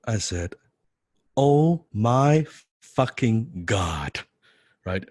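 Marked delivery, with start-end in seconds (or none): 1.4-4.2 stunned awe. Retold or imitated. Recognising his idol in person.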